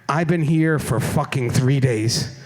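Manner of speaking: low, slow grumble of a stranded woman; fed-up passenger. Retold or imitated. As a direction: drag it out like she's had enough. Angry stranded passenger quoted.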